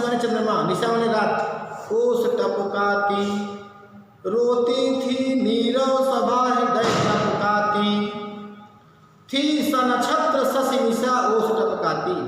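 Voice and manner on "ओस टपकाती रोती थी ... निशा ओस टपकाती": slow, drawn-out chanted verse; verse recitation. Acted. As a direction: recite the poem in measured sing-song, stretching line ends. (धीमे, लयबद्ध स्वर में काव्य-पाठ)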